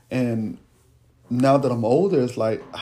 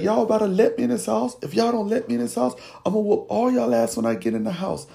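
dad threatening; 9 semitones higher, faster than usual. Retold or imitated. Dad threatening kids through door.

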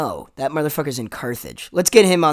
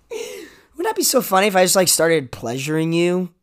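creepy flirty bro; 3 semitones higher than usual. Retold or imitated. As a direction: lightly play the creep who thinks it's funny. Acting out Clay's creepy line.

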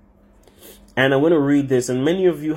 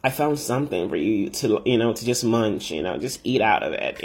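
coaxing Eve; 4 semitones lower than usual. Acted. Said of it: "And she's like".

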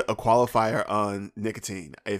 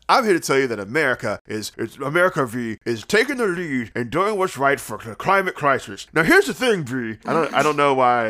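Muppet voice. Acted. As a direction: talk like a Muppet. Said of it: "What is this voice? Are you a Muppet now?".

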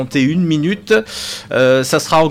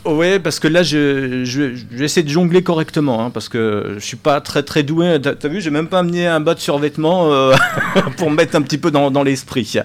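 muffled, speaking behind a face mask; through a face mask. Real, not acted. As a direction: talk through a mask over the mouth. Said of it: "ah oui, avec le masque".

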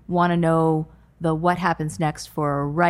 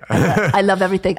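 put-on Dracula-like accent; 5 dB louder, faster than usual. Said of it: "why he sounds like Dracula".

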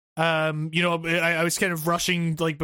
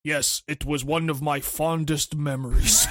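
low, slow deadpan monotone; deadpan Agent 47; 3 semitones lower, slower than usual. Retold or imitated. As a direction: say it totally flat and slow. 47 as tattoo star, deadpan.

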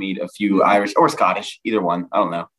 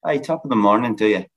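American trying an Irish lilt; attempted Irish accent; faster than usual. Shown as a demonstration. Repeating the phrase an Irishman fed him, attempted Irish accent. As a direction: copy the Irishman's lilting accent. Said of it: "That'll, that'll help".

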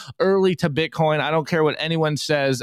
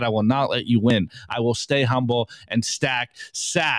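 acted defiant refusal; 3 semitones higher than usual. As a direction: recite a list of refusals, dropping steadily in pitch. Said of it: "we got Matt Odell here smiling with his hat".

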